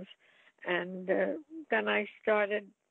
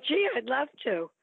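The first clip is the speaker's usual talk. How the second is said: bright retold eagerness, pitched up high; eager acceptance; 6 semitones higher, 3 dB louder than usual. Young performer accepting a movie offer, eagerly.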